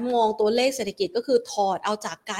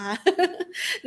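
short laugh; 8 semitones higher than usual. Real, not acted. Laughing at misread name.

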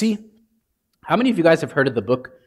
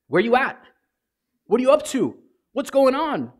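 higher, casual, urgent asking; casual plea to God; 7 semitones higher than usual. Retold or imitated. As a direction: talk to God like a worried friend. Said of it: "Or is it".

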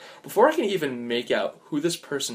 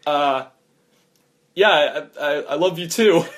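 awkward laughing; 3 semitones higher, 5 dB louder than usual. Acted. Awkward forced confession.

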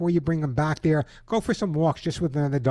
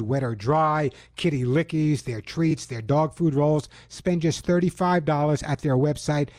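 upbeat, slowed sponsor pitch; punchy radio host ad pitch; radio ad read. Acted. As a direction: sell it to the listeners, leaning on each word.

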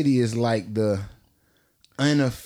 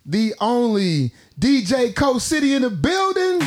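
hype man intro; 5 semitones higher, much slower than usual. Acted. Hyping up the guest's entrance.

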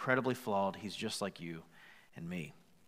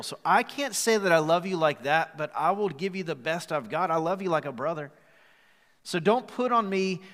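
loud, higher pleading confession; impassioned plea; 4 semitones higher, 7 dB louder than usual. Retold or imitated. Peter confessing to Jesus, loud and pleading. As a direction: cry out Peter's guilt to the congregation. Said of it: "And so Peter goes".

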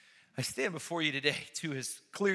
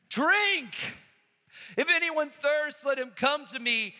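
high, loud call to drink; urgent call; 9 semitones higher, 7 dB louder than usual. Real, not acted. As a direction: ring it out as a summons. Preacher's ringing appeal.

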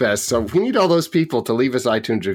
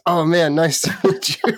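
laughing quote; 7 semitones higher than usual. Retold or imitated. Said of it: "And he goes".

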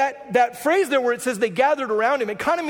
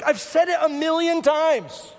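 higher, slow and pointed; exasperated mom; 5 semitones higher, slower than usual. Retold or imitated. A mother reminding her kids yet again, higher and slow. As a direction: spell it out like a fed-up parent. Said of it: "And you're like".

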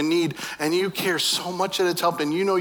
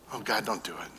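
1 soft pleading; 6 semitones lower, 10 dB quieter than usual. Retold or imitated. Moses pleading with God.

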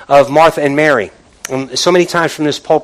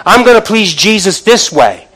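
Martha's busy resolve; 5 semitones higher, 6 dB louder than usual. Retold or imitated. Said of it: "working these works according to what she knows".

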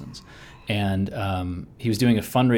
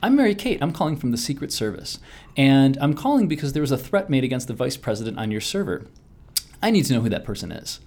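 polite caller, pitched up at first then settling; Mary Kate; 3 semitones higher than usual. Retold or imitated. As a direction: lightly imitate a pleasant official on the phone. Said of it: "a very nice woman named Mary Kate".

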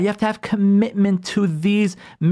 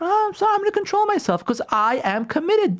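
calm self-talk; 12 semitones higher than usual. Retold or imitated. Voicing spouse's calm self-talk.

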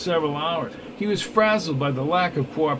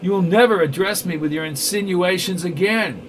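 louder, higher cold threat; angry villain; 3 semitones higher, 4 dB louder than usual. Acted. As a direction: warn him never to speak so again. Neville threatens Glass.

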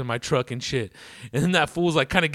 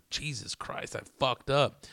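whispered panic; 7 dB quieter, slower than usual. Retold or imitated. Inner panic on icy road.

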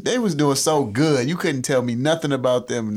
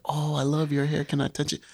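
imitating white people; 3 semitones higher, 5 dB quieter than usual. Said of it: "when white people be like".

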